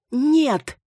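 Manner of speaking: high, loud cry; shouting no. Acted. Маруся shouting to reach the cross, high and loud. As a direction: scream it out. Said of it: "снова закричала Маруся".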